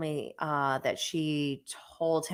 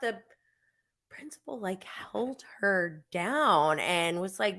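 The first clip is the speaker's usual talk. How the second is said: hushed whisper; real whispered narration; 6 dB quieter than usual. Real, not acted. Whispering on camera.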